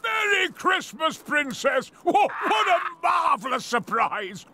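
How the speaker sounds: delighted surprise. Acted. Uncle greeting unexpected family.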